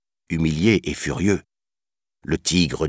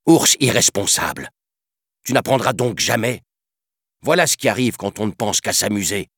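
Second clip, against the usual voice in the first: furious panther; 5 semitones higher than usual. Acted. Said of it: "s'exclama furieusement la panthère".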